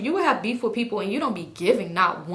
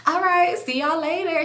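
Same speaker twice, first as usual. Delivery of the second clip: higher-pitched mock farewell; imitated breezy goodbye; 7 semitones higher than usual. Kelly leaving the car, imitated high breezy goodbye.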